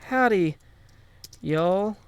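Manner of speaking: a sing-song howdy to teach chat; cowboy howdy. Shown as a demonstration.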